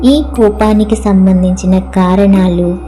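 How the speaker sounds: measured prayer recitation with long pauses; healing prayer. Acted. Speaker addressing her own anger as dear, in measured prayer. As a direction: recite it as a guided affirmation, phrase by phrase.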